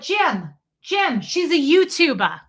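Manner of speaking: high, loud mock New York holler; imitated calling out. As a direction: call across to a husband, mimicking. Woman calls out to husband.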